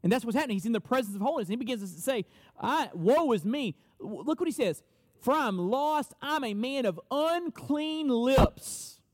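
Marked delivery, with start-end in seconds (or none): 2.6-9.0 slow, pleading lament of a ruined man; anguished confession. Acted. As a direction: drag the words out in despair. Isaiah voiced confessing ruin.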